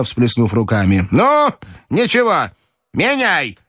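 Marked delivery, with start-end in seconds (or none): 1.1-3.6 put-on high, resolute old-lady order; decisive grandmother's cry. A narrator's reading. Grandmother telling him to change money, decisive cry. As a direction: give the order high and firm. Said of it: "крикнула она решительно".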